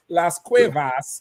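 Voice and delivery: "Las Cuevas" drawn out slowly, syllable by syllable; imitated pronunciation. Teasing the reader on the first attempt, slow imitated "Las Cuevas". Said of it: "when you said it first, you say".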